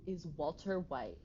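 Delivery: a hint of the Skylar White audio, sassy; imitating Skylar White. Streamer quoting the Skylar White meme to chat, mock sassy. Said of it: "audio of Skylar White when she's like".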